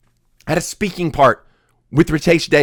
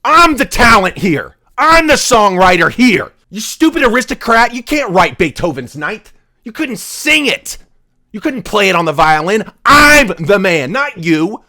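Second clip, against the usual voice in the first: a loud, defiant boast, partly slowed; mock-Beethoven telling off the aristocrat; 2 semitones higher, 4 dB louder than usual. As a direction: throw your chest out and boast defiantly. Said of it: "threw his shoulders out and said".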